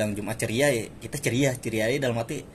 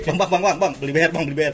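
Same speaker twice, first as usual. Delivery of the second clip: raised, higher repeated hailing; calling out; 5 semitones higher, 6 dB louder than usual. Retold or imitated. Student hails a vendor near the station, calling out. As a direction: imitate hailing a street vendor insistently.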